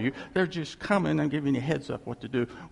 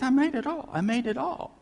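voicing God; 9 semitones higher than usual. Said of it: "He says".

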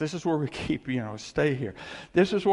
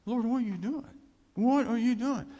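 whiny complaint; 9 semitones higher than usual. Retold or imitated. Complaining to God.

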